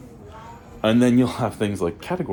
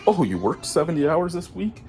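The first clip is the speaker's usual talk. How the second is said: mocking boss voice. Mocks company's excuse.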